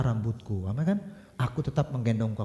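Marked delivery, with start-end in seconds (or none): 1.4-2.4 God's promise. Retold or imitated. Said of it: "kata Tuhan".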